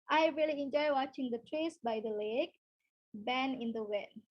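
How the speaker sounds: careful teacher reread; slow clear demo line; slow model sentence, slowing to the end. Shown as a demonstration. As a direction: restart the example, easing down slowly.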